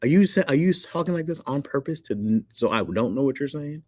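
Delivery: high-pitched incredulous questioning; exaggerated high, baffled outsider; mock bewilderment. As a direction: squeak it in comic confusion, easing down gradually. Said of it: "y'all all be like".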